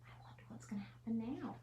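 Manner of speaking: quick unvoiced whisper; hushed, fast storyteller whisper; suspense whisper. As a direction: lean in and build suspense. Suspense aside to children.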